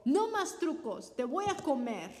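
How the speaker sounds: shout. Acted. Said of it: "gritó".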